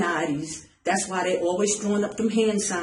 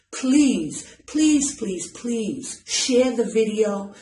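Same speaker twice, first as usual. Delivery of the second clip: pleading; 2 semitones higher, much slower than usual. Real, not acted. Preacher begging followers to share the video, urgent. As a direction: plead with each repeated please.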